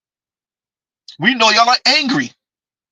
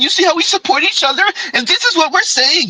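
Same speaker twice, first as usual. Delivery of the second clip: mock sisterly voice; 11 semitones higher than usual. Mocking the women's sisterhood.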